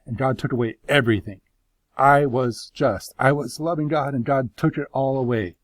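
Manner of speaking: forceful protest, a touch indignant; indignant pleading. Acted. Job defending his innocence to his friends, impassioned protest.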